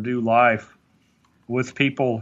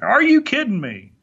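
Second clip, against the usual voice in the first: much higher, throwing the question straight back; puzzled echo; 9 semitones higher, 3 dB louder than usual. Retold or imitated. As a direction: bounce it back, half baffled. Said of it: "And you're like".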